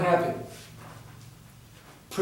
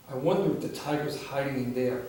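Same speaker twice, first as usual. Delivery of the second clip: hushed wondering; 6 semitones lower, 9 dB quieter, faster than usual. Acted. Sneaking up on hut.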